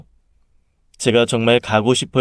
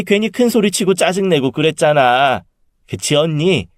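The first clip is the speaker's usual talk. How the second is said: placating aunt; 3 semitones higher than usual. Acted. Aunt soothing her sister after quarrel, placating. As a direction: talk the bad dream round into good news.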